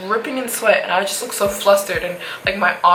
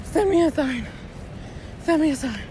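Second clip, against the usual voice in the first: mock scream; 8 semitones higher than usual. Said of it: "like, screaming".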